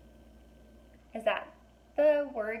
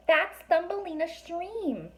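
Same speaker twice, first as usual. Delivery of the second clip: put-on girl voice; 9 semitones higher, slower than usual. A narrator's reading. Alex voice continuing.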